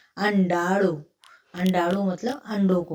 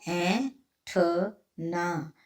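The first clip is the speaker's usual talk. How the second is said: stretched word; much slower than usual. Shown as a demonstration.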